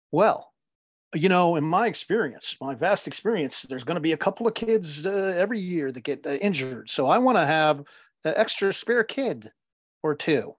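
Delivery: lightly put-on coach voice; a hint of a self-assured hockey coach. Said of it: "I love your coach voice".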